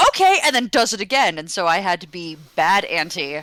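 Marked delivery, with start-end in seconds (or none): 0.1-0.4 put-on high, lilting toddler okay; lightly voiced toddler. Aunt imitating her nephew agreeing, lightly voiced. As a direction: chirp it like a carefree three-year-old. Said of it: "And he goes".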